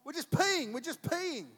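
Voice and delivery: high, loud flustered excuse with a laugh; mock-innocent intruders caught by the son; sheepish excuse. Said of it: "And they're like".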